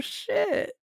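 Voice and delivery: excited exclamation. Real, not acted. Player reacting to big hit.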